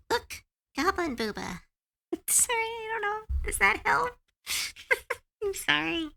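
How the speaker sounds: giggling, high and breathy through the words; can't stop giggling while apologising; laughing. Real, not acted. Laughing at the chatter's name, giggling apologies. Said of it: "I'm sorry that I'm laughing".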